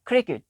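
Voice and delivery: क्रिकेट with a crisp, hard k at the start, pitched high; hard k sound. Shown as a demonstration. Teacher shows C making a k sound, crisp demo. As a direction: punch the k of क्रिकेट. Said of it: "अब हम काफ की आवाज़ दे रहे हैं".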